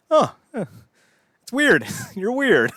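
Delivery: high, loud puppet alien voice; comic alien taken aback; weirded-out Alf. Acted. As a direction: squeak it out, unsettled. Alf reacting to Sweet Tooth.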